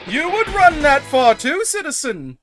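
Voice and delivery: a hint of pompous mascot; lightly voiced superhero. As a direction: puff up like a soda hero. Speaks as Pepsi Man.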